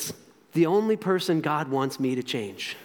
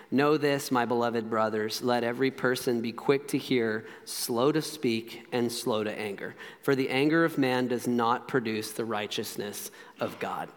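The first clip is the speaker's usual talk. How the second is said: lower, measured Bible reading; scripture reading; 6 semitones lower, 5 dB quieter than usual. Acted. Preacher reading James to the congregation, measured scripture reading. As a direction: read the verse out soberly, low. Reads the Bible verse aloud.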